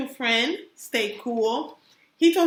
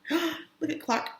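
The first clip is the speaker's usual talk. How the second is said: gasp of delight; 3 semitones higher, 6 dB quieter than usual. Real, not acted.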